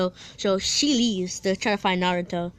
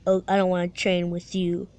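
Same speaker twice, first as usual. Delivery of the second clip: a touch lower, dismissive; scoffing; 4 semitones lower than usual. Retold or imitated. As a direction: look down on him lightly. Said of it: "Sasuke just scoffs and said".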